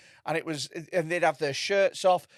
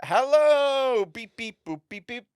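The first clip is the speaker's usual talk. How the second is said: robot character; 7 semitones higher, 4 dB louder, slower than usual. Retold or imitated. Robot act greeting the audience, high mock-robot voice. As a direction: imitate a stage robot, long vowels then beeps. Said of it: "Comes on stage as a robot".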